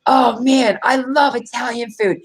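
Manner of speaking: gushing mock enthusiast, drawn out; mock food fan. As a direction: imitate an oblivious Italian food lover. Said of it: "people that will suddenly go".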